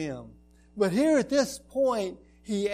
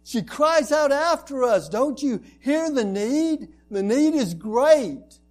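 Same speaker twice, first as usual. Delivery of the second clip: louder, higher insistent pleading; urging demand; 4 semitones higher, 4 dB louder than usual. Acted. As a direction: press him, almost shouting. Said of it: "They were urging Him".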